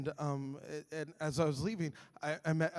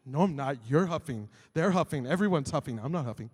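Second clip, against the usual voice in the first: low, defensive mock grumbling; grumpy denial; 5 semitones lower than usual. Grumpy husband arguing with his wife, defensive. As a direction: deflect the blame grumpily, pitched down.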